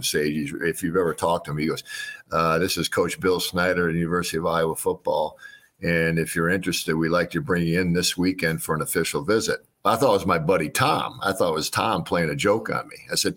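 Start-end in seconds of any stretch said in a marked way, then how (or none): 2.6-9.6 flat, even coach voice; monotone voice. Retold or imitated. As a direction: read it with no ups and downs. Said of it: "he's really monotone".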